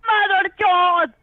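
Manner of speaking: slow, yelled insult; shouted curse. Real, not acted. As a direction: spit out the curse slowly. Scammer cursing at caller.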